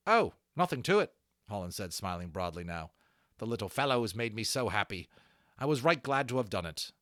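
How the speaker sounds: lightly voiced young workman, chuffed; pleased young craftsman. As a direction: shrug off the thanks happily. Holland the young harness maker.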